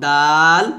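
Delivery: দাল with a light D and long, level "aa"; long-drawn, thin দাল; thin soft D. Shown as a demonstration. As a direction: stretch দাল out evenly. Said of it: "তা, দাল পাতলা করে উচ্চারণ করতে হবে".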